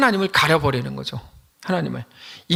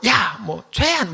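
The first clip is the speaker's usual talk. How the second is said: short, half-hearted demonstrated shout; mock yell at someone; 3 semitones higher, much slower than usual. Shown as a demonstration. Preacher giving another example of yelling, a light mock shout. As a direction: toss out a quick mock call. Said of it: "뭐 이런 식으로 소리를 지르죠".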